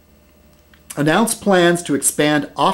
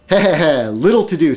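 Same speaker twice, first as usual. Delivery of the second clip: sly villain chuckle; 3 semitones higher, 4 dB louder than usual. Acted. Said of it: "comic villain laugh".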